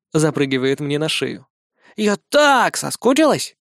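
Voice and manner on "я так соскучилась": put-on high, slow child gushing; little girl missing someone. Little girl's voice.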